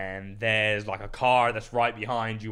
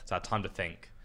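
whispering; 5 semitones lower, 9 dB quieter than usual. Real, not acted. Quiet reflective retelling.

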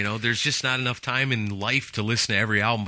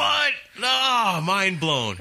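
mock shock; 9 semitones higher, much slower than usual. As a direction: squeal it in pretend disbelief. Reacts to news about a singer.

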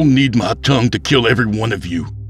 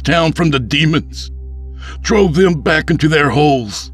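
high, raised voice of indignation; loud, impassioned demand in a raised pitch; loud, carrying accusation; 13 semitones higher, 4 dB louder than usual. A narrator's reading. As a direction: project to the whole crowd. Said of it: "loud enough for all to hear".

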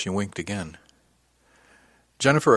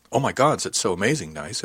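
gushing. Retold or imitated. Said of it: "It wasn't like any kind of".

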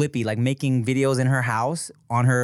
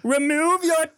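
put-on high, slow British baby aristocrat; British accent; slower than usual. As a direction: demand it slowly, in pompous mock British. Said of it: "busted out with this British accent".

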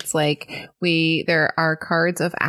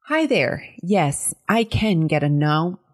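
news anchor; slower than usual. Acted. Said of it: "news anchor".

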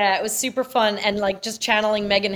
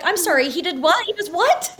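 mock disbelief; 6 semitones higher than usual. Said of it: "I was like".

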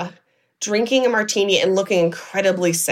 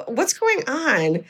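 concerned questioning; 5 semitones higher, much slower than usual. Retold or imitated. Daughter anxiously questioning her dad.

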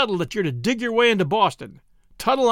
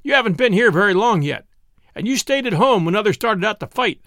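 a hint of a resentful taunt, louder; lightly voiced bitter cook; 6 semitones higher, 5 dB louder than usual. A narrator's reading. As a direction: jeer at Zeb's digging. Zeke taunts Zeb.

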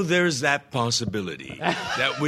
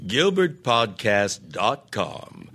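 announcer plug for social media, slowing at the end; podcast promo read; 2 semitones higher than usual. Shown as a demonstration. Closing promo for listeners, announcer style. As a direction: read the plugs like an ad. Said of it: "Should we have George read this?".

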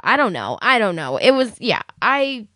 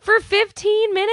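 incredulous; 12 semitones higher than usual. Real, not acted. Incredulous repeat.

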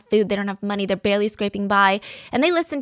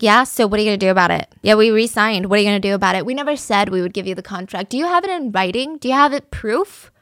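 taunting the Zhangs; 4 dB louder than usual. Retold or imitated. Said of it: "The Wangs are like".

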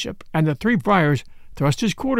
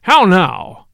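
loud angry; 6 dB louder than usual. A narrator's reading. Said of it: "in a loud and angry voice".

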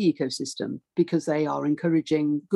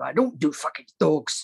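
John Sessions refusing; 3 semitones lower than usual. Retold or imitated. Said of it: "he'd go".

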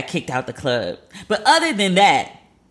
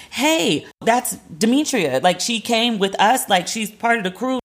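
pleading friends; 6 semitones higher, slower than usual. Retold or imitated.

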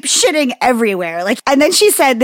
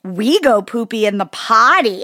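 put-on condescending toddler; 3 semitones higher, 4 dB louder than usual. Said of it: "condescending, shitty tone".

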